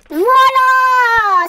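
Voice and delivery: loud, high victory cry; triumphant shout. Real, not acted. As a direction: crow about the win. Succeeds, triumphant.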